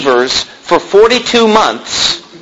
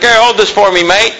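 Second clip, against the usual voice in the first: a hint of an Irish bloke, pitched up; Irish accent; 3 semitones higher than usual. Irish passenger asks the preacher a favor, imitated Irish accent. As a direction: mimic an Irish passenger asking lightly. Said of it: "this Irish guy".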